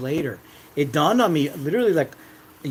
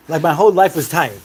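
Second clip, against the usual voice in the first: exasperated; 6 dB louder than usual. Real, not acted. Exasperated outburst about being tired.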